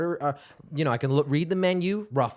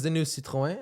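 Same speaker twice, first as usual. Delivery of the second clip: French accent. Real, not acted. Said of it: "talk about an accent in Citroën".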